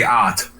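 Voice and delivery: "ot." said as the Pittsburgh "out"; Pittsburgh pronunciation. Shown as a demonstration. Pittsburgh native demonstrating how locals say "out", Pittsburgh pronunciation. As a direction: say "ot." with a flattened Pittsburgh vowel for "out". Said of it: "We say".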